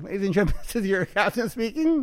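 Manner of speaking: laughing mock captain's cabin announcement; pilot announcement. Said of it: "I like the whole pilot thing".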